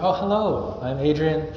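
friendly welcoming voice; engaging welcome. Shown as a demonstration. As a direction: greet a visitor at church eagerly. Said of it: "But if I'm different".

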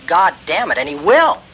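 "God damn it" stressed on God, falling; grave oath, meant; solemn condemnation. Shown as a demonstration. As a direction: pronounce it as God's judgment. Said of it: "start saying about the abortion epidemic".

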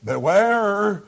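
slow, solemn King James reading; scripture reading. Acted. Preacher reads Deuteronomy to the congregation, slow and solemn. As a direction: read the verses slowly and reverently.

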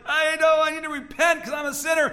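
high, loud mock confession; crowd crying out. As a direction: imitate people blurting out their guilt. Repentant crowd at the Jordan.

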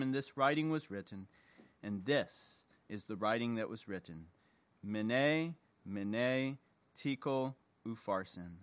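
measured, solemn Bible reading; scripture reading. Acted. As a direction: read scripture aloud to a congregation, phrase by phrase. Reads scripture aloud to congregation.

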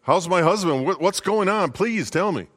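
high, frantic wife pleading; anxious young wife voice; panicked wife. Acted. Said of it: "She rushes up to him and says".

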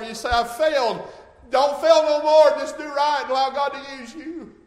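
loud, high, impassioned pulpit cry; preaching at full force. Acted. Preacher urging children and parents in the church, preaching at full force. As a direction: call out to children and parents with fervour.

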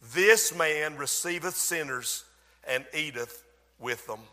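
mild sarcastic mockery. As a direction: drag it out with scorn, like a jeering Pharisee. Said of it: "They began to speak sarcastically".

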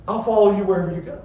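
building from quick chatter to a high loud vow; bold proclamation. Retold or imitated. Mister Hasty following Jesus everywhere, bold eager proclaiming. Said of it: "boldly proclaims it".

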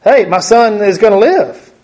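mock leap up and praise; joyful rejoicing. Father hearing his son will live, rejoicing aloud. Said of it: "his first reaction would be".

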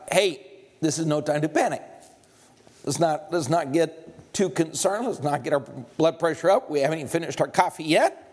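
low, easygoing prophet sipping coffee; unbothered Elisha. Acted. Elisha calmly reassuring his panicked servant over coffee, low and easy.

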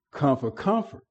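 soft quoted command. Retold or imitated. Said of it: "and say".

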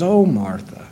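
a touch of tender compassion; compassionate. Retold or imitated. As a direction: gently pity her, Oh, Martha. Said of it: "The compassion in his voice".

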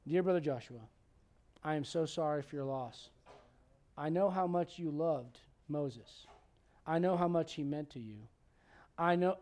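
lightly sugary consolation; sympathetic card. Pretend. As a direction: read it like a tender condolence note. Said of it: "I'd write like this".

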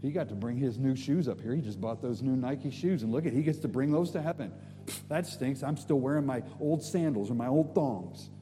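mild envious grumble, kept low; jealous. Pretend. Believer eyeing another's new shoes in heaven, jealous grumble. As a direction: play a petty, jealous onlooker. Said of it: "it'd be jealous".

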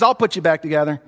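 calm voice of God; reassuring. Acted. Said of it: "God says".

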